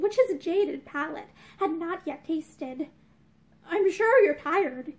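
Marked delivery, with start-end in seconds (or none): 3.6-4.9 gently. Acted. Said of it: "he said gently".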